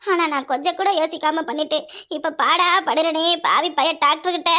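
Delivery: slow, drawn-out self-pitying wail; mock-tearful lament.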